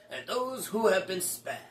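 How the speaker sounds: gloating villain, sly menace; Dark Lord voice. Acted. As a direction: taunt them like a dark lord. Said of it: "the Dark Lord Stan".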